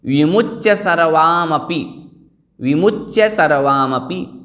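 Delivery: विमुच्य said with a doubled, lingering च्च, slowly; careful recitation. Shown as a demonstration. Teacher modelling the phrase slowly for students. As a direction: lean on the च्य in विमुच्य and join सर्वामपि. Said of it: "इस प्रकार से बोलना है".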